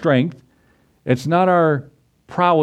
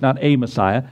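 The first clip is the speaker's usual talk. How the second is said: "a" said as a full "ay" before "Messiah"; emphatic "ay" for "a"; stress on A. Shown as a demonstration. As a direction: lean on "a" to reject just any one. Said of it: "Not a Christ".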